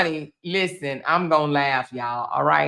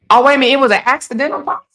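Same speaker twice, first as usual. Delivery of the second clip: surprised; 7 semitones higher, 5 dB louder, much faster than usual. Real, not acted. Learns it's accidental policy.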